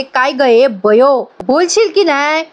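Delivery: mock telling-off, pitch climbing by the end; mildly acted angry questioning; retold scolding. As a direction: press for an answer without really shouting. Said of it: "ओरडते तिच्यावर आणि म्हणते".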